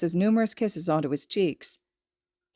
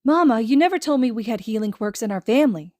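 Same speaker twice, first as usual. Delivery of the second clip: whining; 4 semitones higher, 5 dB louder than usual. Acted.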